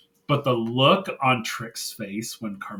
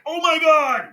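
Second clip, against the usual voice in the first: high, loud fan outburst; blown-away replay of a big reaction; excited shock; 6 dB louder than usual. Retold or imitated. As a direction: gasp it out as a stunned fan reliving the moment. Reliving shock at the match moment.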